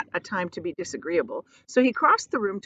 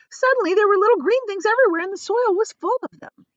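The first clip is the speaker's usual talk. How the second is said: Miss Spider voice; 13 semitones higher, 6 dB louder than usual. A narrator's reading. Miss Spider high fast voice.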